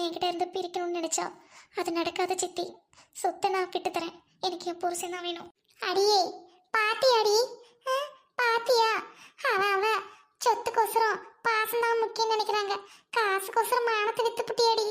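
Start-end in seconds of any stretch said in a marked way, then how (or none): 5.8-14.9 loud, sharp rebuke; angry scolding. Acted. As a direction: tear into her for selling her honour. Relative scolds Roja angrily. (கோபமாக உரத்துத் திட்டும் குரல்)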